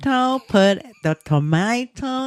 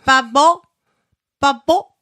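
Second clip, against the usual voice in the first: imitating baby; 5 semitones higher, 4 dB louder than usual. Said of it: "my baby said".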